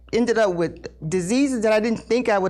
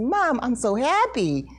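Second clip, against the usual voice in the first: happy, drawn-out reassurance; smiling; 2 semitones higher than usual. Retold or imitated. Son reassuring his crying mother, smiling. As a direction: say it slowly through a smile. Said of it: "and he was smiling".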